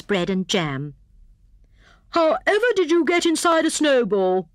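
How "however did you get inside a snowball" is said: high hare voice, put out; disappointed Hare. A narrator's reading. Hare questions hedgehog found in his snowball, disappointed. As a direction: ask in high-pitched disbelief. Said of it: "who was most disappointed".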